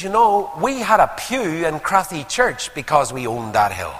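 imitating a friend's gentle boast; touch of pride. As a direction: let a little family pride show. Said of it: "a wee touch of noted pride".

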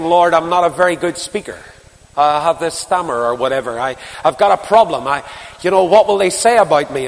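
a touch of anxious, stammering Moses; Moses making excuses. Retold or imitated. Preacher voicing Moses excusing himself, mildly anxious. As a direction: fret a little as Moses pleading. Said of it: "It's like Moses saying".

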